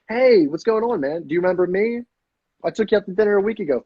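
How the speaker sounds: put-on high, familiar old-pal greeting; question inflection. Shown as a demonstration. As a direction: greet them as if they should know you. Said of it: "it's a question inflection".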